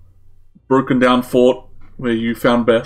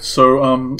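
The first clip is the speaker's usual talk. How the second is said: ordinary talk, nothing marked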